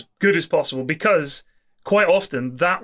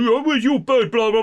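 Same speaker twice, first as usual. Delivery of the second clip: raised, higher lad's voice; imitating a pub lad; 7 semitones higher than usual. Retelling a pub scene to a friend, in a higher lad's voice. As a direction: play the cheeky mate asking after the girlfriend. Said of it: "one of the lads says".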